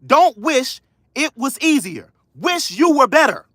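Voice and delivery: slow and deliberate, each phrase set apart; drawn-out motivational repeat; emphatic repeat. Shown as a demonstration. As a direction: say it again slowly so it sinks in. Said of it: "Let me say that again".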